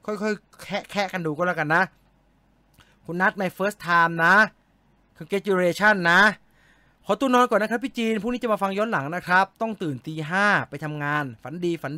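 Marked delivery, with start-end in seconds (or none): 3.0-6.2 slow careful reading. Real, not acted. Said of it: "reading a commenter's English slowly".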